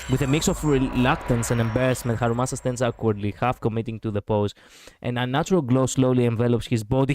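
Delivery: reading story narration aloud; measured storytelling read-aloud; game narration. A narrator's reading. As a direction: narrate the scene in an even voice. Reads the game's narration aloud.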